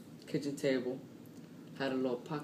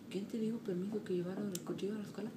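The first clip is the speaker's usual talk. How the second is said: fast, higher mock scolding in Spanish; scolding mom; 6 semitones higher, 4 dB quieter, much faster than usual. Mom scolding her son at the office, fast and higher. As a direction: rattle it off like an irate mom.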